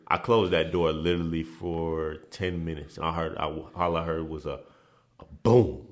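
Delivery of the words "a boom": boom sound. Retold or imitated. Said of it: "it said".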